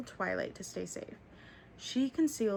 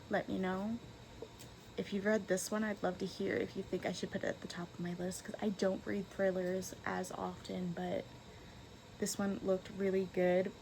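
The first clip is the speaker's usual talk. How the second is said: talking while chewing gum; chewing gum through the outro. Real, not acted. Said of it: "if you saw my gum".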